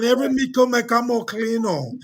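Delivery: put-on Jamaican accent; playful Jamaican patois. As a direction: joke in a thick Jamaican lilt.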